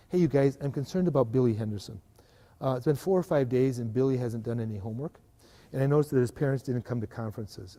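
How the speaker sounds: calm, constructive problem-solving voice; a teacher speaking with caring concern; concerned, helpful tone. Shown as a demonstration. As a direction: raise the worry gently with colleagues. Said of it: "It's the tone of my voice is different in those".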